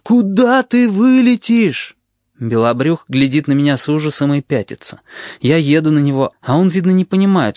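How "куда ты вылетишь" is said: drawn-out high wail on куда, slow; almost howling. A narrator's reading. Narrator nearly wails at the frightened boy, slow and high. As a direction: stretch куда into a near howl. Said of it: "я уже почти завываю".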